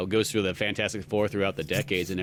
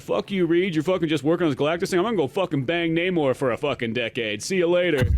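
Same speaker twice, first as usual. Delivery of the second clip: mock angry Sue; 5 semitones higher than usual. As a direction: rant like a fed-up wife. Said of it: "She's like".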